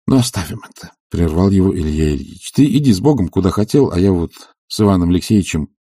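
ordinary delivery

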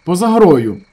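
loud, high, flat fall on грою; stubborn repeat. A narrator's reading. Gas workers stubbornly repeat the claim, loud. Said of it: "незадоволено, проте вперто повторили".

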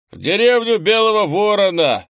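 loud, high bellow from a big man; booming, hearty holler; barked shout. A narrator's reading. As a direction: bellow it out boisterously. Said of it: "гаркнул Пронарий".

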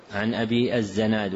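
الزناد said "az-Zanad"; fatha on zay. Shown as a demonstration. Teacher repeating the misprinted name, الزناد with fatha. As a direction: put a short "a" after the z in الزناد. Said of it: "وقع".

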